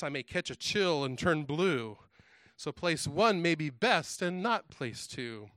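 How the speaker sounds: measured, rhythmic storybook reading; children's verse recital. A narrator's reading. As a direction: read the rhyme out with a playful lilt, pausing after each line. Reads Doctor Seuss verse aloud.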